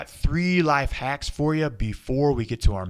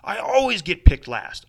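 inner voice; 3 semitones higher, 11 dB louder than usual. Shown as a demonstration. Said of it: "that voice inside of our head that says".

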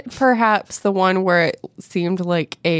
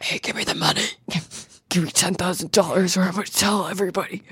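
creepy whisper; 5 dB quieter, faster than usual. Retold or imitated. Blackmailer threatening her in story.

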